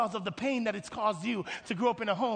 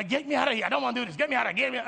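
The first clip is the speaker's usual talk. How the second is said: hurried, higher mock pleading to get out; impatient complaint; 4 semitones higher, 4 dB louder, much faster than usual. Congregant begging God to get out, impatient complaint. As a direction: act out someone desperate to bail. Acting out wanting to leave.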